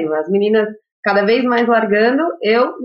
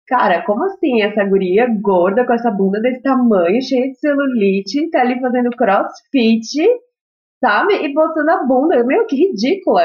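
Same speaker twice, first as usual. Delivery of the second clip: imitating a judgemental onlooker, pitch climbing towards the end; mildly scandalised, mimicking a critic's ridicule; mock scornful disbelief; 2 semitones higher than usual. Voicing scornful critics of her body.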